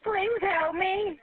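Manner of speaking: slow, drawn-out begging; begging for her life, very slowly; desperate slow plea. Real, not acted. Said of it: "I'm just scared".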